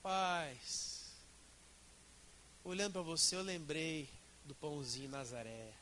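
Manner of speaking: low, soft demo greeting; demonstrated gentle tone. Shown as a demonstration. Preacher demonstrates a harmless tone on a congregant, softly. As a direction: drop low and ease softly through the phrase. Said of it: "num tom".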